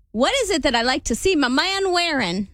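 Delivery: put-on Southern accent. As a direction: attempt a mild Southern accent. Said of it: "That's my best Southern accent".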